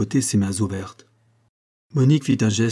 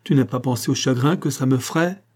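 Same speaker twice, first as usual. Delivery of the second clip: raised, wounded reproach; wretched cry; 4 semitones higher than usual. Acted. Marin asking Monique about his grief, wretched cry. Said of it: "s'écria le malheureux".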